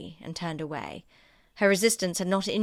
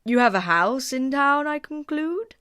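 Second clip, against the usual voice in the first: put-on higher, louder fawning old gentleman; a higher, brighter-pitched courtier voice; courtly Sir William; 8 semitones higher, 8 dB louder than usual. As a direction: play the eager-to-please host.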